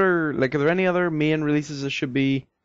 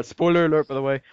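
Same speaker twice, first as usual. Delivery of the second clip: ordinary delivery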